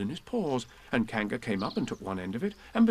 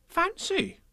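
surprised. Acted. Dairymaid exclaims.

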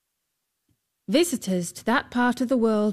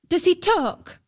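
much higher, cheeky and dismissive; insolent; 10 semitones higher, 3 dB louder than usual. A narrator's reading. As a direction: toss it off rudely. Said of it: "Her manner was quite insolent".

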